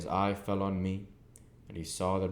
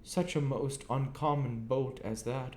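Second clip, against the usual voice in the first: Joe confiding; 7 semitones higher than usual. A narrator's reading.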